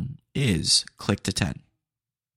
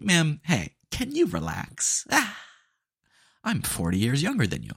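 exasperated; 6 semitones higher than usual. Retold or imitated. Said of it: "And I'm like".

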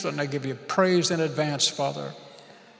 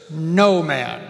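leading the call; 8 dB louder than usual. Shown as a demonstration. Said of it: "everybody say".

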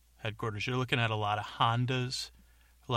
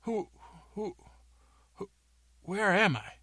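high, hurried calm down; James calming crowd; 10 semitones higher, faster than usual. Acted. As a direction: settle them, pitched high. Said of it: "You go".

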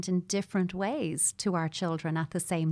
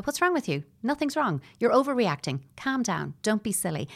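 impatient scolding; 4 semitones higher than usual. Retold or imitated. Parent dismissing a distressed child, impatient scolding. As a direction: brush off the child's upset impatiently. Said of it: "in that latter tone".

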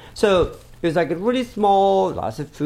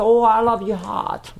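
put-on British accent; 5 semitones higher than usual. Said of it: "I don't sound British".

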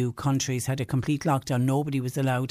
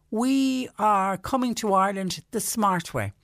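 lightly put-on American accent, higher and slower; 6 semitones higher than usual. Host retelling smug tourists in a light American accent. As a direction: boast it in a mild mock American accent. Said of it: "Is that an American accent I hear?".

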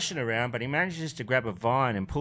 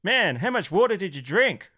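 higher-pitched punchline in the monkey's voice; astonished stoned monkey; 8 semitones higher than usual. Acted. Stoned monkey looking down at the crocodile, amazed higher voice. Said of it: "looks down at the crocodile".

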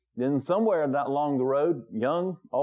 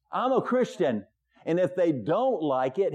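firm, raised declaration of faith; emphatic; 3 semitones higher than usual. Retold or imitated. Manager telling the pastor who he is, emphatic. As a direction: retell it with the manager's conviction. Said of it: "And he was very emphatic about that".

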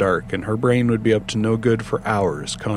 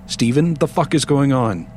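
shouting; 5 semitones higher than usual. Acted. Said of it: "she shouted at her handset".

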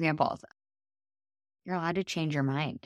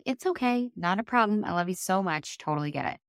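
imagined reassurance; 4 semitones higher than usual. Retold or imitated. Voicing the friend's hoped-for forgiving reply.

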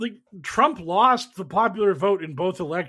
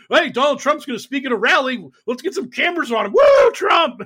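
high, loud excited whoop at the end; giddy media hype; 8 semitones higher, 7 dB louder than usual. Retold or imitated. Media hyping a Trump rally, high excited whoop. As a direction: cheer like an overeager fan. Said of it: "the media's like".

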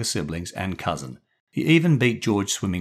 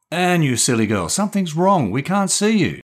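exasperated; 10 semitones higher, 5 dB louder than usual. Acted. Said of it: "said Julian in an exasperated tone".

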